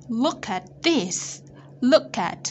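"look at" run together as "loo-kat"; slow teacher model of linked "look at"; linked sounds. Shown as a demonstration. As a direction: carry the k of "look" into "at". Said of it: "Cô đọc nối âm".

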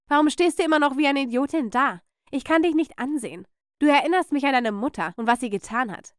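irate aunt, high and hard; angry berating. Acted. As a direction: scold the niece with disgust. Aunt berates her niece.

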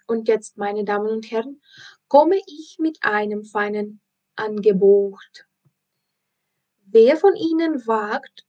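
a lightly voiced showman barking the offer; circus ringmaster. Circus director announcing the prize to the crowd, lightly voiced showman. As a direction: hawk it to the crowd like a circus barker.

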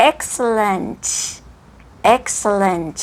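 "excellent" with a released, hissy final T; crisp ending on "excellent"; clear final consonant. Shown as a demonstration. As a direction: enunciate "excellent" right through the last T. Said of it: "ออกเสียงให้ชัดเลย".

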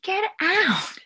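a loud, high barked command; harsh order. Retold or imitated. Drunk boyfriend ordering her out with a loud bark. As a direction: throw her out with a sharp yell.

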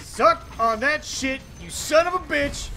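slow, triumphant trash talk; gloating taunt. Real, not acted. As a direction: rub it in their face. Gloating over a kill.

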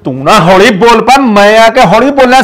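heated telling-off, trying to hush her. Acted. Husband quarrels with wife.

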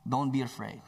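low, calm reassurance; calm, assuring. Acted. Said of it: "a calm, assuring voice".

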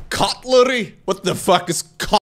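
high-pitched mock bewilderment; baffled retelling. Tourist hearing an unknown word in Scotland, baffled. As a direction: act out being totally thrown by the word.

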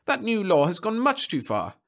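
high-pitched, indignant tirade; shouting. A narrator's reading. Client attacking copyright law to supervisor, shouting. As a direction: rail angrily against the swindle. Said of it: "shouted the man".

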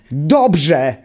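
enraged shriek of dobrze!”; furious yell. A narrator's reading. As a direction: explode on the repeated dobrze!”. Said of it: "wrzasnął zapamiętały w gniewie".

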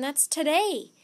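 sudden dawning panic; alarmed realisation. A narrator's reading. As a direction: blurt it out in rising panic. Jack realises eruption is today.

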